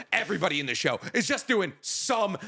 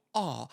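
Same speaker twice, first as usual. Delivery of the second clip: soft aw; 7 semitones lower, 6 dB quieter than usual. Real, not acted. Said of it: "like a literal audible".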